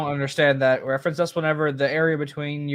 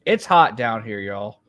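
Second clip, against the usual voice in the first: a light Southern drawl, louder on the opening; 3 semitones lower, 4 dB louder, slower than usual. Pretend. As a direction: drag the words in a mild Southern accent. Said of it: "That's my, that's my southern drawl".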